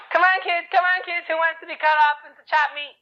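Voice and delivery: high, insistent taunting call; threatening madman. Acted. Madman with a knife calls to the children, threatening. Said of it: "was threatening all the Jewish children".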